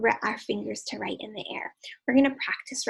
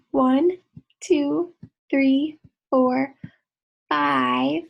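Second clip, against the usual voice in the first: loud counting; 3 semitones higher, 9 dB louder, much slower than usual. Acted. Counting along loudly with kids.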